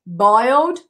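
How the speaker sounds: slow, deliberate "Hard boiled eggs"; slow teacher drill; slow model. Shown as a demonstration.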